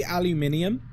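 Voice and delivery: "aluminium" as al-yu-MIN-ee-um; rising "aluminium", al-yu-MIN-ee-um; international pronunciation. Shown as a demonstration. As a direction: say "aluminium" with five syllables, stressed on MIN. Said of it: "the accepted pronunciation internationally".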